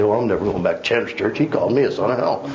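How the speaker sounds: fast, offended mock complaint; huffy churchgoer. Churchgoer grumbling about Pastor Chandler, quick mock huff. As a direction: rattle it off like a miffed member. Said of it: "you might just say".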